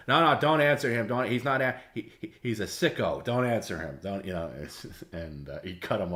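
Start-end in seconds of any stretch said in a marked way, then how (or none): 0.1-4.3 urgent mock cutoff. Host cutting chef off urgently.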